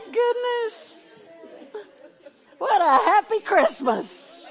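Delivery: high, loud laughter through happy tears; laughing and crying. Real, not acted. Pastor greeting surprise friends from the pulpit, laughing through real tears. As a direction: laugh and cry at once, overcome with joy. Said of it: "Okay, I'm crying".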